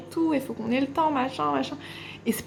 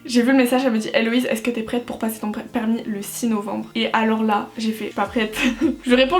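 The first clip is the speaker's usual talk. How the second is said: ordinary delivery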